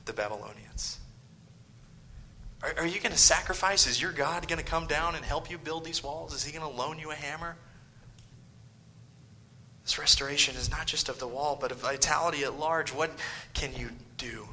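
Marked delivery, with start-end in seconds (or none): 2.6-7.6 fast, higher and fading sarcastic jabs; mocking sneer. Enemies mocking the builders, sarcastic and fast. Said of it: "when they say". 13.5-14.5 hushed whisper to drive the point home; dramatic whisper. Acted. Preacher to congregation, a hushed whisper.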